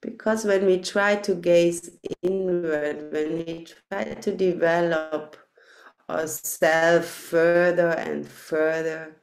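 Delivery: unhurried guiding voice with long pauses; guided meditation. Real, not acted. Teacher settling meditators into loving-kindness practice, measured guided meditation voice. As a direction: lead them gently inward, phrase by phrase.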